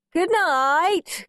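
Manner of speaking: high, sing-out cheery farewell; cheerful call. A narrator's reading. Henry pretends he is off to bed, calling cheerfully. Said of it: "called Henry cheerfully".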